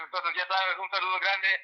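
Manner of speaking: rapid South Texas Spanish, pitched slightly up; quick Spanish shout-out in a South Texas accent. Shown as a demonstration. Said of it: "do I do this in my South Texas voice".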